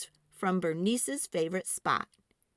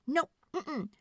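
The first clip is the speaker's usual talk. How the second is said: higher, louder insistence; stubborn girl; 6 semitones higher, 4 dB louder than usual. A narrator's reading. Girl refusing parents' plan, high and insistent. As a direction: dig in and refuse.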